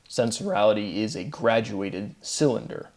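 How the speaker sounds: cracking voice. Real, not acted. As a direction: voice cracking mid-sentence. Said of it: "Nice voice crack".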